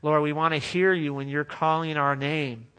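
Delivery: earnest pastor leading the church in prayer; a pastor praying for hungry hearts; closing prayer. Acted. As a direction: pray it over the people, steady and sincere.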